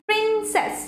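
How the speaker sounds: প্রিন্সেস with the weight on প্রিন; stress on first syllable. Shown as a demonstration. Teacher giving a two-syllable noun example, প্রিন্সেস stressed on প্রিন. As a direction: lean on প্রিন, let সেস drop in প্রিন্সেস. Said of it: "প্রিনে আমার জোরটা বেশি পড়ছে".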